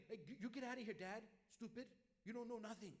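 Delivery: mock rude teenager snapping at his dad; rude son. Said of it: "the son says to the father".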